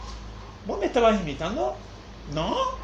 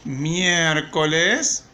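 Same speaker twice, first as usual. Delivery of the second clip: slow dictation; 2 semitones lower, much slower than usual. Shown as a demonstration. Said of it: "ponemos acá".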